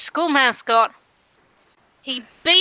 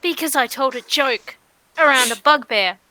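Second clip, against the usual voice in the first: ordinary talk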